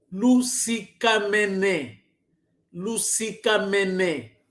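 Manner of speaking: "Lusikamene" spoken slowly, syllable by syllable; slow model greeting. Shown as a demonstration. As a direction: let the class hear "Lusikamene" slowly. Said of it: "teacher models greeting".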